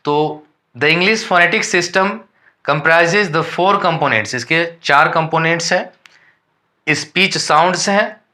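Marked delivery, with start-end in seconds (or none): 0.8-4.4 reading English textbook lines slowly and deliberately; careful dictation pace for students; slow read-aloud definition. Shown as a demonstration. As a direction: dictate it word by word to the class. Reading slide text slowly.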